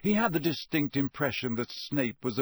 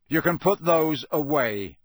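put-on gruff old auror growl; 4 semitones higher, 6 dB louder than usual. A narrator's reading. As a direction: growl it like a grizzled old soldier. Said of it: "he growled".

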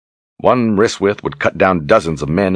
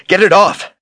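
shrieked, far higher and louder; panicked cry; 14 semitones higher, 5 dB louder than usual. Acted. Kahlan desperate to lose the severed arm, panicked scream. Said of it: "she cried".

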